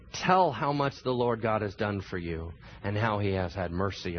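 measured, dramatic Bible reading; scripture reading. Acted. Pastor reading Luke to the congregation, dramatic reading. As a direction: read it like telling the story to the church.

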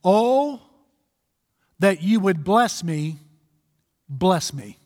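drawn-out "Oh", then measured plea; earnest, emphatic prayer; emphatic pleading. Acted. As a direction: plead emphatically for blessing, with weighty pauses. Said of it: "Look how emphatic he is about pleading".

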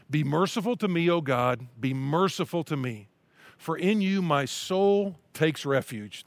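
slow, earnest reading of a psalm; scripture reading. Acted. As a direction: read it as a heartfelt prayer.

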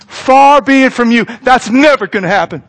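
mildly indignant, emphatic objection; mock rebuke. Peter rebuking Jesus over his talk of dying, mildly indignant. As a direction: protest firmly as an appalled disciple. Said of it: "rebukes Jesus".

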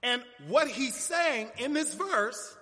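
slow, emphatic pulpit exposition; deliberate preaching. Real, not acted. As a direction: lay it out phrase by phrase for the congregation.

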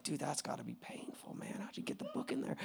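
joking mock concern. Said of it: "And you're like".

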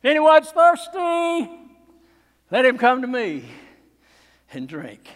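preacher voicing Jesus crying out to the crowd; cried out. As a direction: call it out to the whole crowd. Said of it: "he cried out".

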